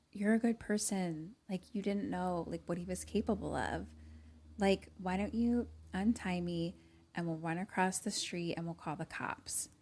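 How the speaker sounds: soft, earnest coaxing; trying to connect. Retold or imitated. Captive girl persuading her captor to untie her, coaxing. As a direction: quietly talk the captor round. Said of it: "really trying to, like, connect with him".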